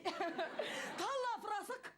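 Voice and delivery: slow, threatening Moroccan accent. Shown as a demonstration. Comedian shows how Moroccans sound, menacing Moroccan accent. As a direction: say it like you're about to hit someone. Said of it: "on dirait qu'ils vont te frapper".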